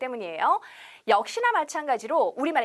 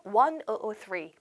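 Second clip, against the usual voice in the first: "One oh oh three" slowly, digit by digit; slow model for repeating; 3 semitones lower, much slower than usual. Shown as a demonstration. Teacher leading students to repeat, slowly. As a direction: read the digits one at a time for them to copy. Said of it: "자, 따라해볼게요".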